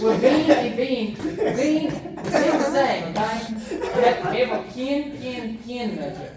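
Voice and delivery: loud, high, drawn-out words through laughter; laughing protest. Real, not acted. Debater defending his merged vowels, laughing loudly. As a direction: insist loudly while cracking up.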